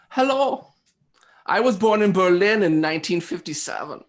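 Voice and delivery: high, loud put-on German voice; German accent. Host posing as German designer on speed date, German accent. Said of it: "I'm just talking in a German accent".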